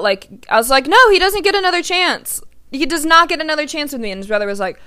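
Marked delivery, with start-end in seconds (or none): 0.9-4.1 retold defiant no.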